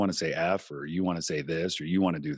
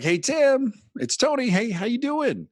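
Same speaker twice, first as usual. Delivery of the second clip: high, loud, sing-song radio host greeting; 5 dB louder, slower than usual. Shown as a demonstration. Radio host showing off his on-air voice to the podcaster. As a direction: call out like a DJ reaching a friend down the hall. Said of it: "That's my radio voice".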